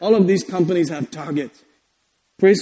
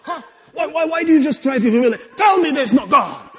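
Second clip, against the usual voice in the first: insistent mock confrontation; imitating a mafia boss; 5 semitones higher than usual. God pressing a doubter, imitated mafia boss. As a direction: press for a confession, mafia-style. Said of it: "he's like the ultimate mafia person".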